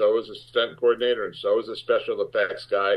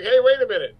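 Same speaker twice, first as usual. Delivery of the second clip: raised, louder retold protest; calling a halt; 10 semitones higher, 6 dB louder, faster than usual. Actor stopping the crew before the squib hits, calling out. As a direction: break in high and loud to stop the take. Actor interrupting the crew's roll call.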